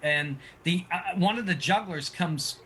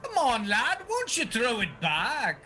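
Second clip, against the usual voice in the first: slightly higher friendly coaxing; lightly voiced coaxing juggler; 6 semitones higher than usual. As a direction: coax him to toss it back.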